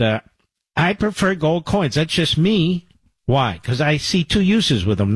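conversational radio host endorsement; ad read. Acted. Radio host pitching gold to listeners, personal ad read. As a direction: sell it like a personal recommendation. Reads a sponsor advertisement.

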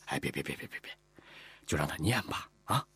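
smooth things over with a string of protests; hurried peacemaking. Acted. Master intervenes between wife and girl, placating. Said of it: "赶忙打圆场".

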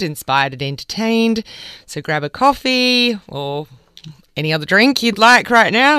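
lively, projected magazine-programme introduction; radio show opener. Real, not acted. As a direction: welcome listeners in with an upbeat presenter's lift.

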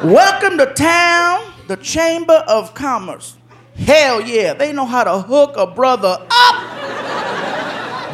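slow, savoring read of a card; pleased man reading aloud. Retold or imitated. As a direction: imitate a man reading with drawn-out satisfaction. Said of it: "He gets to the greeting card".

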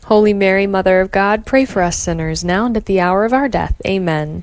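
steady devout rosary response; prayer recitation. Acted.

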